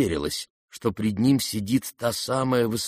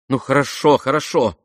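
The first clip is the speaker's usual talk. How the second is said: remorseful; 5 semitones higher, 6 dB louder than usual. A narrator's reading. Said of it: "в совершенном раскаянии и чуть ли не в испуге".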